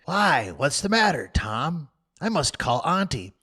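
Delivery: put-on worried boy. Worried brother questions.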